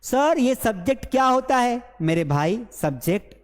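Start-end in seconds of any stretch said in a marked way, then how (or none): 0.0-1.8 a higher, lightly voiced dim student; mock clueless student. Teacher mimics a clueless student asking, lightly higher. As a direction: poke fun by playing a confused pupil. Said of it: "कुछ घासीराम भी बैठे हुए हैं class में".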